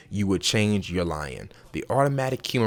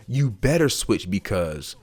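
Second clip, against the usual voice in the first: demanding tone; slower than usual. Shown as a demonstration. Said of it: "that ends the conversation right there".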